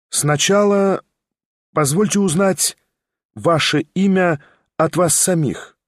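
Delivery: high, deliberate, word by word; stern lady spacing each word; measured and expressive. Acted. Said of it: "мерно и выразительно произнесла она".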